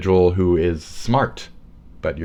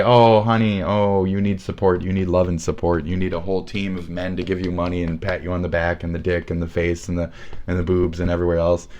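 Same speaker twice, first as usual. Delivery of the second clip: mock sympathetic crowd. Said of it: "they'll say".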